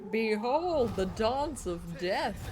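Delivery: slow, dramatic villain intoning; ominous villain voice. Retold or imitated. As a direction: intone it like a doom herald. Echoing a game villain's line.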